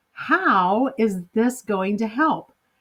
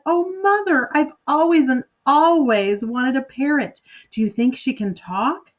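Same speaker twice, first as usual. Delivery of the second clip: put-on higher, eager child voice asking her mother; lightly voiced girl, bursting with delight; a hint of a delighted young daughter; excited little girl; 4 semitones higher than usual. Little girl thrilled by parrot.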